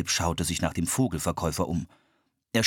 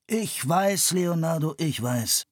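impatient interruption; 8 semitones higher, slower than usual. A narrator's reading. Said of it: "unterbrach Marco ihn".

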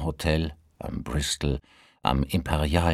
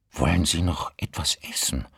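sympathetic. Acted. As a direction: offer food gently. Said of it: "fragte sie mitfühlend".

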